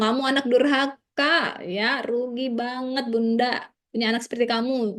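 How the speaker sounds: a hint of a bitter scolding parent; scolding mother. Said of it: "Jangan bilang".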